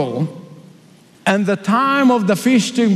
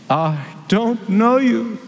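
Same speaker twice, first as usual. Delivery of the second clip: stern bridegroom; slower than usual. Acted. Bridegroom rejecting the foolish.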